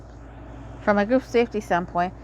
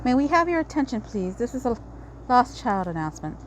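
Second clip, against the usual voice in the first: PA announcement; 3 semitones higher than usual. Acted. Reads park PA announcement.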